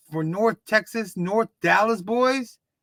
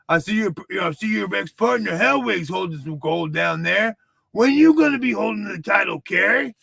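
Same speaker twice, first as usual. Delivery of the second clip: put-on Texas accent. Fan heckling Kerry in a light Texas accent. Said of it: "my Texas accent".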